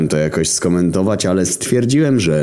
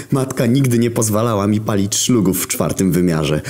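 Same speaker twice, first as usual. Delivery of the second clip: Jesus voice; 7 semitones higher than usual. A narrator's reading. Jezus quoted in story.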